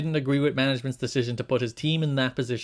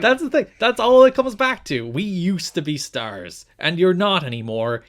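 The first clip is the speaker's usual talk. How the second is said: loud exasperated; 4 semitones higher, 4 dB louder than usual. Real, not acted. Exasperated rant reply.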